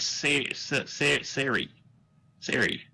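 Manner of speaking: "Sari" as SAIR-ee, like Sarah; "Sari" said with an air vowel; sounding out "Sari". Shown as a demonstration. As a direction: break off on the first syllable, then "Sari" with an eh. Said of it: "that'd be like".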